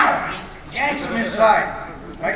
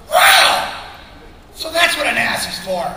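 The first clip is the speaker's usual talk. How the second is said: very high, loud squeal of wonder; amazed cat; 5 semitones higher, 9 dB louder than usual. Acted. Alley cat sitting on a chair for the first time, squealing.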